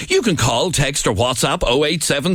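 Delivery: radio presenter voice. Shown as a demonstration. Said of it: "this woman wanted me to say".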